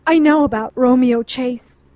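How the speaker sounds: loud high call to stop him leaving; urgent shout. Acted. Calling him back as he leaves.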